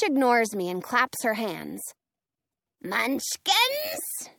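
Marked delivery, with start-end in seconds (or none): 2.8-4.3 high calling voice. Acted. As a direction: call them from afar. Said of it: "she calls".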